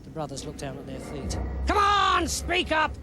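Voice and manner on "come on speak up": high, barked command; king demanding a volunteer; angry demand. Acted. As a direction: bark it at the silent soldiers.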